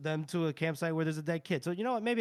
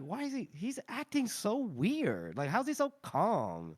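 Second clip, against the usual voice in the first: put-on Valley Girl voice. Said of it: "I made Shy, Shy a Valley Girl too".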